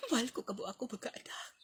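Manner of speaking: fast tender whisper to a photo; whispered love. Acted. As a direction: breathe the words to the pictures.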